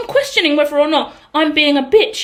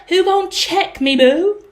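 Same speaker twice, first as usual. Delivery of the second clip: sassy challenge; 4 semitones higher, slower than usual. Retold or imitated. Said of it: "It's like".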